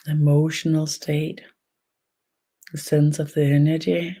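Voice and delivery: unhurried guidance with long pauses between phrases; guided meditation. Real, not acted. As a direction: guide gently, leaving space after each phrase. Leads an energy meditation.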